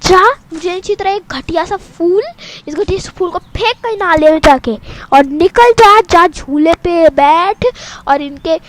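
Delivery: loud angry scolding; angry rant. Acted. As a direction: rant her out of the house. Sister ranting angrily.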